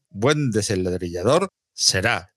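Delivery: measured, deliberate low delivery; slow and careful. Real, not acted. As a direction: take it very slowly, word by word.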